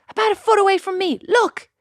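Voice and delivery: a man gleefully pointing out a nearby alligator; gleeful excitement. Retold or imitated. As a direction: sound delighted by the danger. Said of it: "And he goes".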